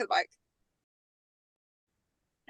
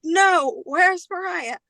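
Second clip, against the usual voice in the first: mock frantic yell; 6 semitones higher, much slower than usual. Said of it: "she is screaming".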